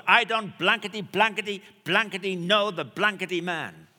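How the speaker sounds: loud, high mock curse; a hammed-up angry denial; mock cursing. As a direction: bleep the swearing out with gusto. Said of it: "he cursed and he swore".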